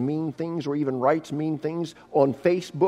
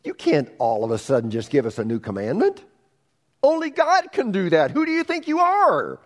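high, louder outraged protest; indignant disciples; 7 semitones higher, 4 dB louder than usual. Retold or imitated. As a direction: voice the scandalized disciples. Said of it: "the disciples probably thought".

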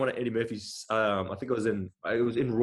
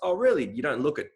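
higher, doubting surprise on a quoted reaction; 5 semitones higher, 3 dB louder than usual. Retold or imitated. People reacting to his introduction, mimicked doubting. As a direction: mimic a sceptical listener, starting high. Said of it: "the thing I get when I tell people".

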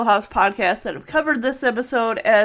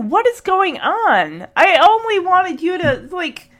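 higher, half-hammed exasperated scolding; mock angry rant; 5 semitones higher than usual. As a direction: play the fed-up uncle, slowed at first. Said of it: "But he is just angry".

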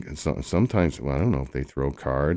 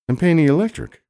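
indignant shout; 13 semitones higher, 7 dB louder than usual. Acted. Indignant protest.

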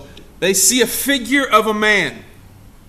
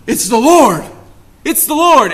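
excited exclamation; 4 semitones higher, 6 dB louder than usual. Acted. John cries out to Peter.

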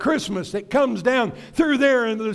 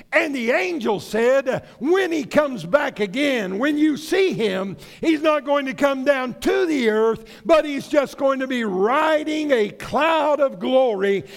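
raised, emphatic proclamation; fervent preacher's announcement; forceful preaching; 4 semitones higher than usual. Acted. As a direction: proclaim it from the pulpit with lifted pitch.

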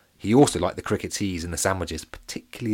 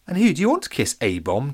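teasing; 6 semitones higher, 4 dB louder than usual. A narrator's reading. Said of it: "teased Jenny".

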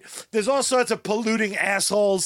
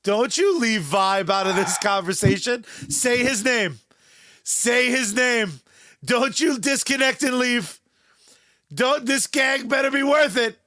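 mock outrage; 3 semitones higher than usual. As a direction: pretend indignation, chanting demands.

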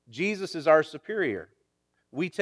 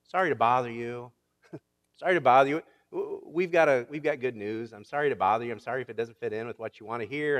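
mock apology; 5 semitones lower, faster than usual. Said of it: "like we're apologizing to the world".

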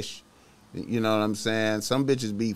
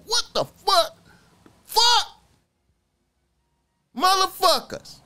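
high, loud angry outburst, jolted awake; mock furious yell; 5 dB louder than usual. Jolted awake from a nightmare, cursing his kidnappers in a high, loud yell. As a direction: yell it like waking up furious at three in the morning. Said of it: "I was hella mad".

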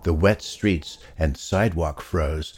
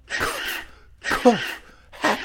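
coughing; slower than usual. Acted. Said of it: "he heard some very loud noises".

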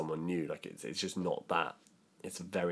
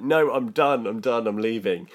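retold firm refusal; 4 semitones higher, 8 dB louder than usual. Insisting to the head of course.

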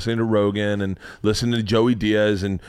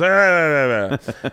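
imitated stuttering "ah" noise; 3 semitones higher, slower than usual. Imitates bar patron's wordless reaction.

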